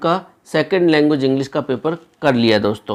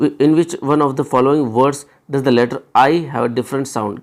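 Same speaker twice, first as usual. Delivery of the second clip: very slow, word by word reading; slow question read; slow dictation; much slower than usual. Shown as a demonstration. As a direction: read the question out slowly for students. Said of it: "reading the question aloud slowly".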